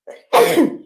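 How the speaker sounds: loud sudden sneeze; real sneeze. Real, not acted. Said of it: "I'm sneezing".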